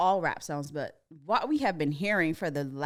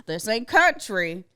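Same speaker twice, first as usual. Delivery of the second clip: put-on country accent; 4 semitones higher, 7 dB louder, slower than usual. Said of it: "you had one".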